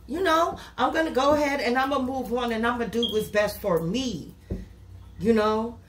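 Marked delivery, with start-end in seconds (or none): 0.1-4.3 acted defiance of the client; voicing the client walking away; mock defiant. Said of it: "So you said".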